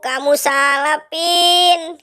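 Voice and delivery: cartoon moaning complaint; distressed whine.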